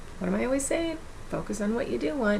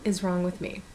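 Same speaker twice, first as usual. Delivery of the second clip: 1 gentle reassurance. Retold or imitated. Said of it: "catch myself and go".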